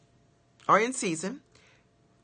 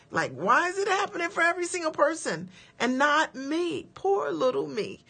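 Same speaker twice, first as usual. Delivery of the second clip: mock self-pity; 9 semitones higher than usual. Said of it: "a spirit of jealousy".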